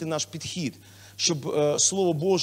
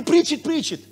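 higher hopeful preach it; mock cheer; 8 semitones higher, 5 dB louder than usual. Pastor asking if listeners still cheer, mock cheer. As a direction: test cheer, half-hearted. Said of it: "чи ти будеш говорити".

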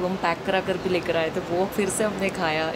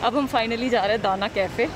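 muffled behind mask; through a face mask; 5 semitones higher than usual. Real, not acted. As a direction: mask covering mouth. Seen 0: Selfie vlogger wears white mask over mouth throughout labelled words.

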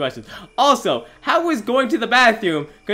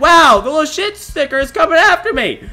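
high, loud, frantic yelling; panicked shouting; 7 semitones higher, 11 dB louder than usual. Real, not acted. Player chased by the monster, panicked shouting. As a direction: yell in alarm while fleeing.

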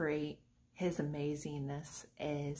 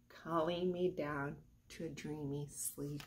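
much softer, fading out; softer echo; 5 semitones lower, 11 dB quieter than usual. Acted. Teacher echoes the bedtime line, fading away. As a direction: let the echo die away to sleep.

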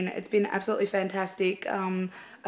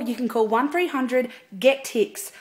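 sales lady pitch; 3 semitones higher than usual. Acted. Sharon from Mosh Tix reading the number, sales-lady voice. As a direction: announce the number like an ad. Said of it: "be like a sales lady".

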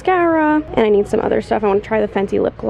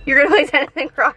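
laughing; 4 semitones higher, faster than usual. Real, not acted. Laughing at boyfriend's Crocs plan.

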